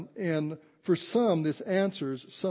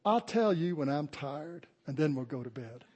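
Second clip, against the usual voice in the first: Skylar. Retold or imitated. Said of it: "that Southern accent like Skylar does".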